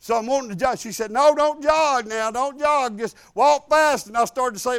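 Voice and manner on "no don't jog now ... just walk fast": firm nurse. Retold or imitated. Nurse ordering him on treadmill.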